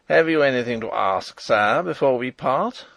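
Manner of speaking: loud, hard jailer's voice taunting the captive king; harsh grating voice. Acted. Jailer Detchard taunting the imprisoned King, harsh and grating. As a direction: rasp it out with cold mockery. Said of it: "a harsh, grating voice".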